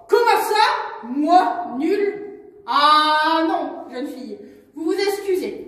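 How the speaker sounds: put-on loud indignant old man; offended elder. Jules, offended, demands Cali apologise, loud.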